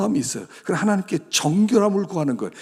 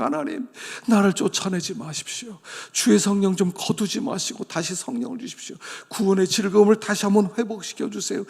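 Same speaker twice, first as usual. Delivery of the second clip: pleading plea pitched higher; crying out; 4 semitones higher than usual. Shown as a demonstration. 다윗이 하나님께 부르짖듯 목사가 시편을 재현하며, 간절한 부르짖음. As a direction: cry out to God like David. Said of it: "이건 부르짖음이었어요".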